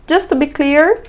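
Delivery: "Just to be clear" rising on "clear"; careful intonation. Shown as a demonstration. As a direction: lift "clear" and leave it hanging. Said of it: "com a entonação".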